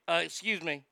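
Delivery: slow, mock-polite ask for the bathroom; a slow, faux-polite ask in the store; mock polite request. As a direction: feign manners, slowly. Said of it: "that's the way I say it".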